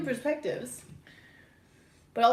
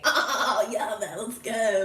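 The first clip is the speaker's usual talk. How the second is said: surfer voice; 4 semitones lower, much slower than usual. Retold or imitated. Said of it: "It's really the surfer".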